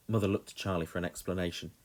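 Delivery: ordinary delivery, nothing marked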